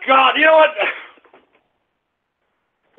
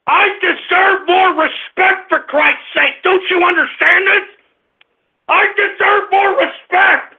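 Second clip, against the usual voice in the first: indignant shouting; 3 semitones higher than usual. Real, not acted. Host demands respect from his audience, indignantly hollering.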